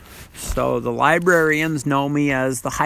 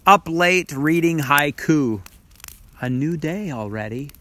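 hushed sparse haiku. Shown as a demonstration. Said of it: "here's a haiku about that idea".

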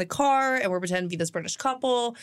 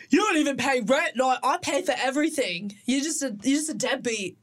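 put-on British accent; 4 semitones higher than usual. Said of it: "we were also pretending to be British".

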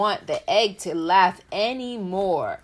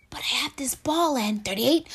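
whispering; 6 semitones higher than usual. Acted. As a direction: whisper it so as not to disturb. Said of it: "Peanut Butter whispered".

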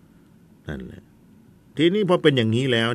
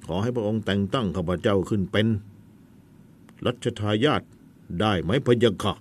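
firm voice. Acted. Nephew asking his royal uncle to name him heir, firm voice. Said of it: "ทำเสียงแข็งเสียด้วยนะ".

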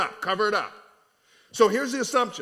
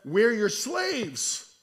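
drawn-out mock surrender; abject surrender; 2 semitones higher, much slower than usual. Brothers bowing before Joseph, drawn-out surrender. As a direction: stretch out SLAVES as you submit.

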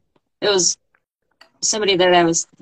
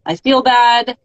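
higher and louder, a strained cry of I feel bad; a sudden pained outburst; anguished self-talk; 6 semitones higher, 6 dB louder, slower than usual. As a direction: blurt it out as if it bursts from you. Voicing own inner spiral.

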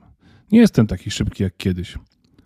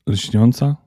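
Lśniąca? asked with a rising tune; startled question. Acted. Elf asks about Lśniąca in a startled question. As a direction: elf hears the name and asks, surprised.

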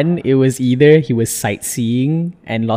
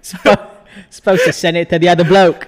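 higher, louder mock-Aussie complaint; hammed-up Australian grumble; 5 semitones higher, 4 dB louder than usual. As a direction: put on an Australian bloke's accent. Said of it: "Australians are just gonna".

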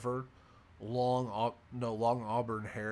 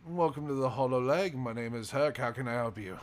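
lightly voiced halfling barkeep, a bit louder; a hint of a hearty innkeeper's greeting; 4 dB louder than usual. Halfling barkeep welcomes newcomers to the bar, lightly voiced. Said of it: "he looks over at you and goes".

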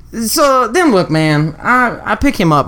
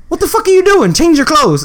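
retold angry yell; 10 semitones higher than usual. Yelling at his brother to change his clothes, furious. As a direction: scold him in disbelief.

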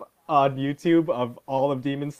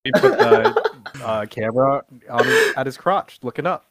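laughing; 5 dB louder than usual. Real, not acted. Describing friend's camera prank.

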